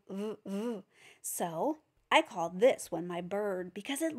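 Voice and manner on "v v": "v, v" as a soft buzzing hum; gentle voiced "v" for the class; buzzed v sound. Shown as a demonstration. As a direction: hum the "v" softly. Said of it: "our next letter ... is v".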